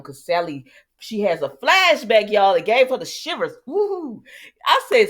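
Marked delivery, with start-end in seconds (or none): 3.7-4.2 high, drawn-out "woo"; excited whoop. Acted. Vlogger acting out Sally's shivers at a flashback, high whoop.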